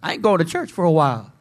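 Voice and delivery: sly, mock-sneaky mutter; sinner hiding from God. Guilty believer talking himself into skipping church, sly. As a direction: play the guilty one hiding away. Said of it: "you're gonna be like".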